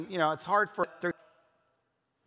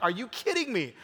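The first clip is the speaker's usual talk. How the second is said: retold disbelief, pitched higher; lightly acted exasperated parent; mock incredulous, without shouting; mild exasperation; 5 semitones higher than usual.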